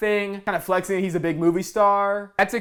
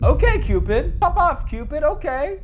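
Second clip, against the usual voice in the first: hyped up; 9 semitones higher than usual. Real, not acted. Hyped about new app.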